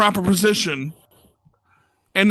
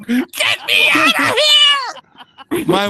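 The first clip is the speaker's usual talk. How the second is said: panicked yell; 4 dB louder than usual. Acted. Patient stuck on the floor to nurses, hammed-up panicked yell. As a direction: holler for rescue, hammed-up.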